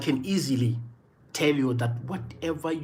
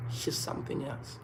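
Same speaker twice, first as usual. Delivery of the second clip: near-whisper, very soft; hushed aside; 12 dB quieter than usual. Real, not acted. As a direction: drop to a whisper, as if confiding. Aside about his gifted daughter.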